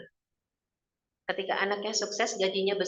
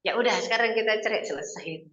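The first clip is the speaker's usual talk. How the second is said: a sudden louder retort, mildly angry; imitating a fed-up husband; 4 dB louder than usual. Husband fed up with his wife's nagging, snapping back louder. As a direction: snap back like a husband pushed too far. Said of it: "kalau suaminya kesetanan".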